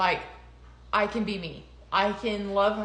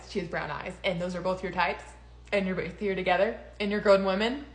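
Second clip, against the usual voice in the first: mock-patient friend; 3 semitones lower, 4 dB quieter than usual. Friend calmly working it out.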